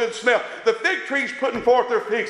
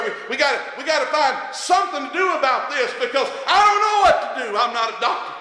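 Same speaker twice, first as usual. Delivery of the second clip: retold panic; 5 semitones higher than usual. Retelling panicked rush to hospital.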